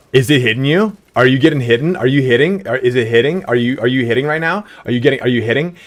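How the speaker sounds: lightly voiced girlfriend, quick rising questions; rapid-fire questions. Girlfriend firing questions at a tripping friend, lightly imitated. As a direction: pepper him with quick questions. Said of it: "she just a rapid fire at this guy".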